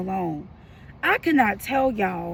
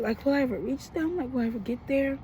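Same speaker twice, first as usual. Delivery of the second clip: softer, weary and anxious, trailing to near nothing; worried, fading; 5 dB quieter than usual. Real, not acted. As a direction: let the worry make you quieter. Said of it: "And I'm so worried".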